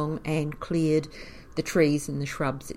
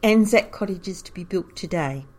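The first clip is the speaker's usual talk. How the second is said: loud ringing proclamation, higher; town crier call; 4 semitones higher, 8 dB louder than usual. Retold or imitated. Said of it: "ringing his bell very loudly and saying".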